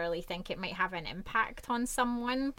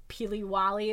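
Scottish peely-wally; 4 dB louder than usual. Shown as a demonstration. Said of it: "as we would say".

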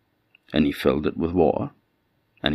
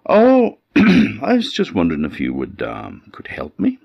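high, louder, humble asking; pleading old man; 5 semitones higher, 5 dB louder than usual. A narrator's reading. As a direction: plead politely, voice lifted high. Old man asks farmer for help.

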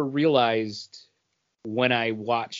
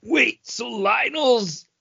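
higher, slow, amazed disbelief; mock shocked realization; 9 semitones higher than usual. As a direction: play up the shock of discovery. Acted realization quote.

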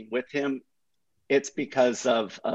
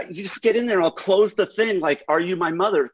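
higher, breezy reassurance; mock carefree Hoff; 6 semitones higher, faster than usual. Mimicking Hoff urging the Camry onto the dirt, breezy and higher. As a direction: wave off the danger in a higher voice.

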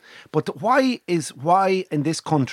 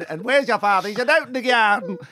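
Navan accent; 4 semitones higher than usual. Shown as a demonstration. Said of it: "When I get to Navan after two days".

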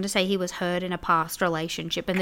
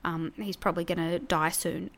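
a much softer, gentle dad voice; soft quoted dad; 2 semitones lower, 7 dB quieter than usual. Retold or imitated. Dad gently telling his daughter the dog will die, softly. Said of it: "Dad was like".

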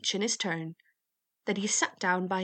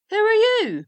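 high, loud hail; waggoner's booming challenge; calling out; 12 dB louder than usual. A narrator's reading. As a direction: shout the question after someone. Waggoner hails the youth.

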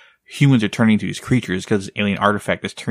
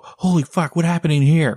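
shocked soldier; 6 semitones higher than usual. Retold or imitated. Soldier reacts to bloody room.

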